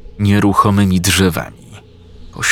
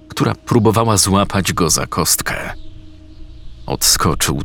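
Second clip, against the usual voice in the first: plain reading voice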